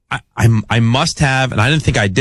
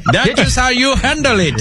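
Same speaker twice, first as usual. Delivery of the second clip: laughing; 13 semitones higher than usual. Real, not acted. Laughing mid impression.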